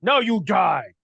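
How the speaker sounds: a touch of monster menace; threatening monster. Acted. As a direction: announce the attack like a brute. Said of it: "He goes".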